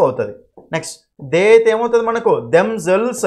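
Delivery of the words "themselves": slow model word. Shown as a demonstration. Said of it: "teacher models the word".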